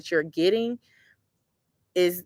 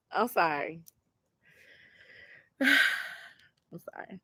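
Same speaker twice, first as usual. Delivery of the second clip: teary-eyed; 7 dB quieter, slower than usual. Real, not acted. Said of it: "a little teary-eyed".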